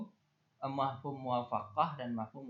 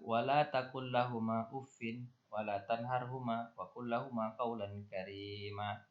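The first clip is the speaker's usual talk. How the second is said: Quran recitation; slower than usual. Acted.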